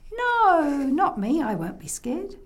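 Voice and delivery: high, drawn-out "no", then reassuring; lightly voiced boy putting on bravery; brave little boy. Boy answers grandma bravely.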